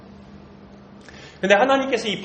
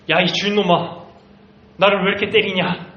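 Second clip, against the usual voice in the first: a hint of an angry donkey scolding its master; lightly voiced, mildly cross complaint; 4 semitones higher, 3 dB louder than usual. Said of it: "라고 화를 내요". (살짝 화난 나귀 목소리)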